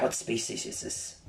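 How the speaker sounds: put-on low, quiet New Zealand American accent; ominous mingled New Zealand American accent. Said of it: "fucking New Zealand American accent".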